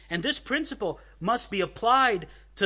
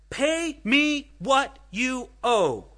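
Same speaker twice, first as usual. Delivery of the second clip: higher, slow, forceful demand; mock scream; 6 semitones higher, 3 dB louder, much slower than usual. Preacher acting out the servant throttling his debtor, slow mock yell. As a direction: bark out each word like a creditor choking a debtor. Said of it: "And he starts screaming at him".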